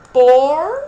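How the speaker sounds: PORCO loud, with POR stretched, then a break before CO; every sound heard. Shown as a demonstration. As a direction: draw out the R in PORCO and split it. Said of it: "Eu escuto o som do P". (PORCO forte, alongando POR, sílabas separadas)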